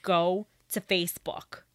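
badly attempted Boston accent; shaky Boston accent attempt. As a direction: imitate a Boston accent, sliding into New Jersey. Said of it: "she has a Boston accent".

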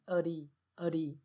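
"early" said as a light uh-dee, for -ity; unstressed -ity ending, "early" as uh-dee; schwa suffix. Shown as a demonstration. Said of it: "这个字尾是念成early".

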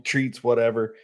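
ordinary talk, nothing marked

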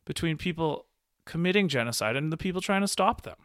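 high, laughing disbelief; exasperated laughing rant; laughing outrage. Real, not acted. Incredulous outburst, laughing.

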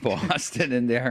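a hammed-up Boston Southie accent, laughing through it. Repeating the line for his co-host, hammed-up Boston Southie accent. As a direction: lay the Boston Southie accent on thick and slow, cracking up. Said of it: "giving us a Southie accent there".

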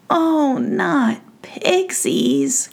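mild mock dread; dismayed cry. Prince seeing the pixies, mild dismay. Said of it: "cried the fairy prince".

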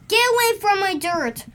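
quick, high, indignant bark; barked warning. A narrator's reading. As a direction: read it as a dog barking off intruders. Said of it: "Roy barks".

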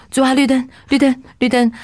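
绿灯 called out high and urgent, fast; excited pleading cries. Retold or imitated. Rider on a motorbike calling to the Lord at each red light, urgent high cries. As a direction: beg each light to turn green, voice climbing.

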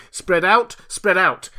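high, loud shouted order; urgent cry. A narrator's reading. Someone shouting orders to the crowd in a chase, urgent cry. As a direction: call it out sharply to a running crowd. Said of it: "cried someone".

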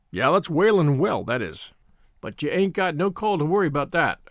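lightly voiced rustic shepherd; a hint of an old countryman's dialect; old country shepherd. Shepherd warning young scouts off the well, in mild rustic voice.

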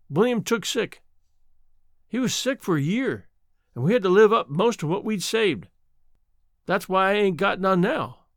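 put-on gently explain, old woman's voice; lightly voiced old mountain woman. Old woman remembers her husband.

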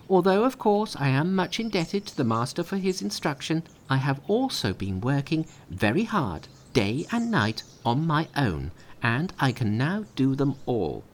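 high, perky Monkey; cheeky young monkey answering; high mischievous monkey voice; Monkey's voice. A narrator's reading. Monkey boasts of his skills.

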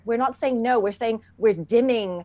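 a hint of a soothing spa voice. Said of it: "I love the way you say it ... spa voice".

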